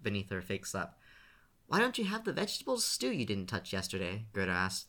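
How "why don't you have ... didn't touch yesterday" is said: stern grandma voice, mildly menacing; threatening grandmother. A narrator's reading. Gerda threatens her grandson over uneaten stew. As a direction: warn him like a strict grandmother.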